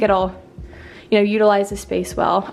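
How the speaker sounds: breathless from talking; slightly winded, catching breath. Real, not acted. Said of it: "I'm literally out of breath from talking".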